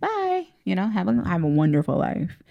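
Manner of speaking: sarcastic goodbye. Acted. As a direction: brush them off with fake cheer. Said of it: "dismiss me with the sarcasm".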